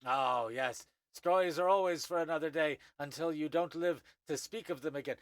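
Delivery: high, knowing elder voice with a dry warning; wry old Thri-kreen. Acted. Old Thri-kreen chides the newcomer, high and knowing.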